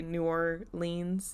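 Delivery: "New Orleans" as new or-LEENZ, long ending; disliked pronunciation. Shown as a demonstration. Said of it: "locals hate it when you say".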